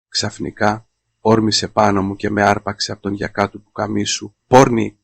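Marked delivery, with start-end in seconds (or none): 4.5-5.0 loud, spat-out insult; furious insult. Acted. Husband shouting at his wife in jealous rage, furious. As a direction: hurl the word at her.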